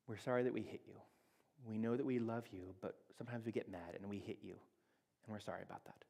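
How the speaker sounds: put-on quiet, gentle apology on child's behalf; soft modeled apology. Parent apologizing to toddler for sister, softly and gently. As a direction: model the sorry softly for her. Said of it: "I'll find the voice for you".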